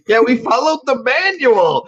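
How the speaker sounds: squeaky high-pitched whine; high squeaky cell voice. Retold or imitated. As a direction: squeak it like a tiny cartoon cell. Voicing cells, very high.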